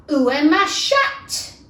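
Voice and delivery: slow, loud classroom French; schoolbook French. Acted. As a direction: recite like a French lesson. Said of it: "the first sentence in her French".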